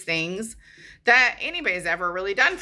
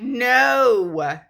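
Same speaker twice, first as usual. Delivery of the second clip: louder and higher, firm no; firm refusal; 5 semitones higher, 4 dB louder than usual. Retold or imitated. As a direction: shut him down through the door. Refusing Carl at the door.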